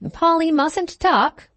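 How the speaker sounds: put-on high, slow old lady chiding a pet. A narrator's reading. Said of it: "said the old lady, waking up".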